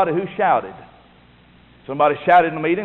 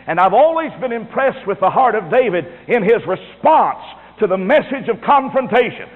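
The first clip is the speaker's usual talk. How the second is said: raised, forceful pulpit delivery; emphatic sermon voice; preaching; 5 semitones higher than usual. Acted. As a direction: preach it with conviction, pitched up.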